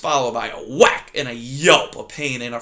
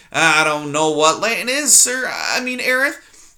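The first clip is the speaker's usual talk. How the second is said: put-on high, small, timid mouse girl; timid young mouse; 4 semitones higher, 4 dB louder than usual. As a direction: squeak it out like a frightened little mouse. Poppy voiced in story.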